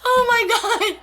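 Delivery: squeaky, high giggling line; laughing. Real, not acted. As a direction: blurt it out through giggles, drawn out. Cracking up at the innuendo.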